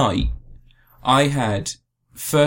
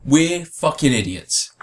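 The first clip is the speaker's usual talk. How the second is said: mock idiot voice; 4 semitones higher, slower than usual. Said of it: "they turned around and said".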